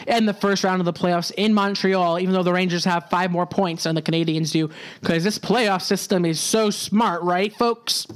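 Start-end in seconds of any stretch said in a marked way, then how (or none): 5.0-8.1 sarcastic. Real, not acted. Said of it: "Hope you can sense the sarcasm there".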